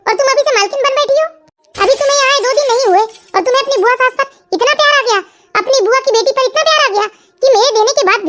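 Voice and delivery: sarcastic mother-in-law mocking her daughter-in-law with a laugh; taunting scolding. Mother-in-law scolds new bride for gifts, sneering. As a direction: needle her with scornful laughter. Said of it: "आप सगुन को क्यों डांट रहे हो".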